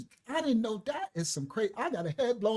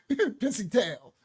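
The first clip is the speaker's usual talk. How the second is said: slow grandma disgust; much slower than usual. Retold or imitated. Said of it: "She said".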